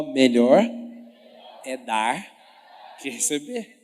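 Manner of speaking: low, slow, loud drawn-out proclamation; deep booming slow mock-pious line; drooling phrase demo. Shown as a demonstration. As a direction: say it like you're drooling over the words. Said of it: "Fala assim comigo".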